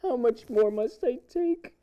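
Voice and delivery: anguished cry. Acted. Rising anguished plea repeated.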